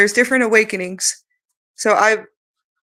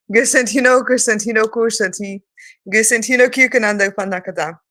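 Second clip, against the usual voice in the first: light language. Acted. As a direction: proclaim the syllables like a call.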